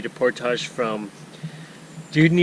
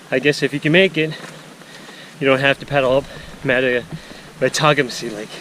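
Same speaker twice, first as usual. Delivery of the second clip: winded, talking while hiking; out of breath on the trail. Real, not acted. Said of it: "Okay, I'm out of breath".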